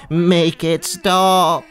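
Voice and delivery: slow drawn-out moan. Acted. Sheep moan at the awful music, slow and pained. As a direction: groan it out, pained. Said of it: "moaned the sheep".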